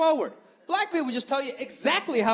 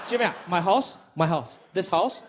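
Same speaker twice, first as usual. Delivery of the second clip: teasing mom; 5 semitones lower than usual. Retold or imitated. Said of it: "And she was like".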